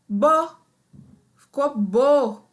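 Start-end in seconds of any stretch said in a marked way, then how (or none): 0.1-0.6 "bó." said higher and louder with an open o; a teacher belting out "bó." for the children; syllable sounded out. Shown as a demonstration. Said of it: "a letra B mais a letra O vai ficar". (sílaba "bó." dita mais aguda e bem alto)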